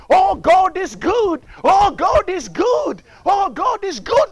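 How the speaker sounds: repeated preacher's cry of praise; shouted praise. Acted. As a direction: exclaim it like rejoicing worshippers. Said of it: "They started shouting to the Lord".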